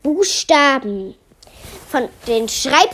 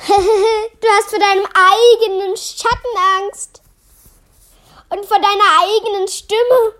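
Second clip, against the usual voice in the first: higher-pitched taunt after a chuckle; mocking laughter; 7 semitones higher than usual. A narrator's reading. Class teases Melia for being scared, mocking.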